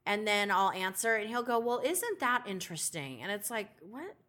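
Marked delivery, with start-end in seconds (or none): 1.6-3.2 softer, mock passive-aggressive judge. Judge reacting to her answer, passive aggressive. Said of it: "Like he's passive aggressive". 3.8-4.1 very soft, under the breath; muttered retort. Retold or imitated. Her private answer to the judge, muttered.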